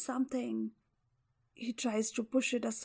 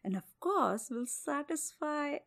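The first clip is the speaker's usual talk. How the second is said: scheming tiger; 2 semitones higher, 4 dB louder than usual. Acted. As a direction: coax the bear slyly. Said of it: "The tiger thinks he has a chance".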